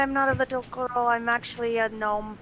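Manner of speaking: put-on high, loud, insistent child protest; crazy child. Gnome correcting the guard who called her little girl, crazy child. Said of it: "you sound like a crazy child".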